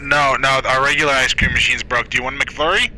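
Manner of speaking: speaker voice through a cupped hand; muffled drive-thru voice. Pretend. Worker refusing ice cream through a muffled drive-thru mic, cupped hand. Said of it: "covering up my mic with one hand".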